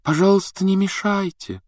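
high-pitched meek request. A narrator's reading. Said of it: "кротко попросила профессор Трелони". (кротко, высоким голосом)

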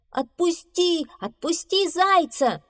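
high demanding shout. A narrator's reading. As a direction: order the bear. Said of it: "кричали они". (требовательный крик)

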